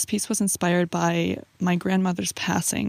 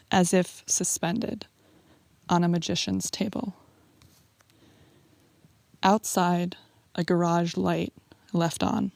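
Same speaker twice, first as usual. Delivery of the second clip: poem reading. Acted. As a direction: linger on each image, unhurried. Reads poem Opening.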